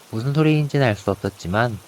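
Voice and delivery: usual speaking voice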